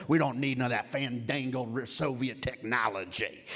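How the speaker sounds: lightly voiced Rocky. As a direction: growl it out like a proud, determined boxer. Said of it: "He's like".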